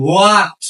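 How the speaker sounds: "what" as a drawn-out "hoo-at"; H pronounced. Shown as a demonstration. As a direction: sound the h at the start of "what". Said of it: "যদি এইচ এর উচ্চারণ হয়".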